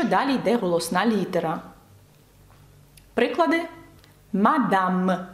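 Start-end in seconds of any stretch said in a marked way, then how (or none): 4.3-5.3 "Мадам" with a clear oral A and full M; non-nasal vowel. Shown as a demonstration. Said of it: "Це не носовий звук".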